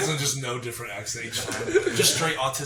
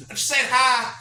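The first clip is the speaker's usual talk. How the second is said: retold innocent greeting; 9 semitones higher, 6 dB louder than usual. Jesse waving after shooting.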